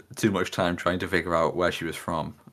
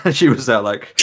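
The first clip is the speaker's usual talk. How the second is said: giggling as you tell it; laughing while talking; 3 semitones higher, 6 dB louder than usual. Real, not acted. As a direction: talk through a real laugh. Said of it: "listener laughs".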